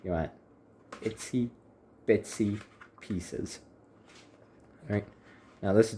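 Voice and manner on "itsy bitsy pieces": slow, higher itsy bitsy; cutesy voice. Acted. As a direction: play up how tiny they are. Cute word for tiny pieces.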